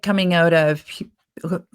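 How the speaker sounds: half-frozen mouth, struggling on the P; numb from the dentist. Real, not acted. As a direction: mouth numb from the dentist, lips not working. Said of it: "my mouth is still half frozen".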